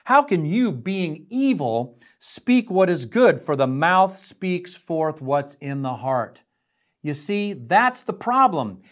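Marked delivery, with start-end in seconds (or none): 0.1-6.4 mild rebuke. Retold or imitated. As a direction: get on their case, deliberately paced. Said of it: "getting on their case".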